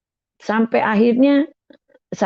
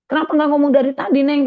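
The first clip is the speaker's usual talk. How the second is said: higher, hurried mock scolding; quick, raised-pitch reproach; retold scolding; 7 semitones higher, faster than usual. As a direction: lightly act out an annoyed driver telling off a girl. Acted scolding by angkot driver.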